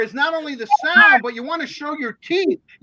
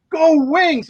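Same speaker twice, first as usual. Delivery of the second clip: higher, milder imitated yell; retold arena cheer; 5 semitones higher, 4 dB louder than usual. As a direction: imitate a crowd chant over the speakers. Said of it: "And then you hear this".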